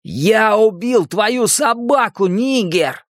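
high, slow, gloating taunt; menacing taunt. Acted. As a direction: spit it out with cruel glee. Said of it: "Генри Бауэр сказал".

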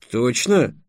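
quick doubtful question; disbelieving. Acted. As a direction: ask as if you can't believe it. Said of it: "не поверил Трикс". (недоверчиво)

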